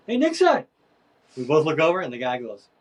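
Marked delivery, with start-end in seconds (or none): 0.1-0.6 high, loud hail; retold calling out. Passing rider hails Nixon, retold calling out. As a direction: holler the name as if across a crowd. Rider calls over to him, acted.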